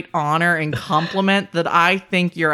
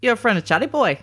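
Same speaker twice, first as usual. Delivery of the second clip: put-on Boston accent; 5 semitones higher, faster than usual. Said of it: "trying to do a Boston accent".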